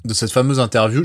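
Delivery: talking while eating candy; mouth full. Real, not acted. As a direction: speak around a sweet in your mouth. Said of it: "je mange des bonbons".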